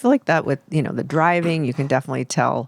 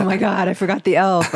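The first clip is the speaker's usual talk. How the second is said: mock stressed-out parent, a bit higher; mildly panicked parent; 4 semitones higher than usual. Imitating parents who forgot the elf, mildly panicked. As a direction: quote a parent's small panic, lightly. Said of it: "parents really stress out".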